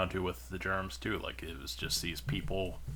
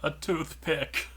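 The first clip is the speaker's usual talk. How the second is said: slow, higher comic punchline; 8 semitones higher, slower than usual. Pretend. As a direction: drag out the punchline. Punchline delivered in character.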